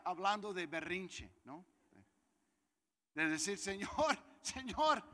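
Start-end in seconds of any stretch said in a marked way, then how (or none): 3.6-5.0 high, loud mock whimper of a tantrum; tantrum whine. Preacher imitating his tantrum before God, high mock whine. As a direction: whine like a child throwing a fit. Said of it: "estoy hablando de chillar".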